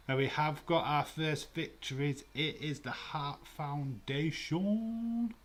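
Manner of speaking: big booming announcer call, high and loud; ring announcer. Acted. To the stream, calling the Hart Foundation win like an announcer, booming. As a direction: belt it out like the arena announcer.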